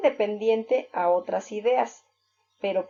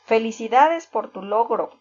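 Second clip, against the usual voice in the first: happy exclamation; 4 dB louder than usual. Shown as a demonstration. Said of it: "estamos contentos por algo".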